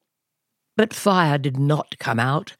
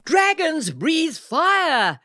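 much higher, slow emphatic coach; coach yelling; 13 semitones higher, slower than usual. A narrator's reading. Coach yells at the class that dragons breathe fire. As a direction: bellow it at the class. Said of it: "yelled the coach".

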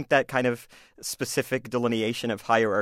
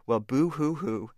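mock crying; slower than usual. Bully mocking his father.

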